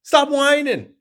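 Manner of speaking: high, incredulous "stop whining" razzing; mock disbelief of a buddy; best friend voice. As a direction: friend teasing Krishna-style, high and incredulous. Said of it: "how your best friend talks to you".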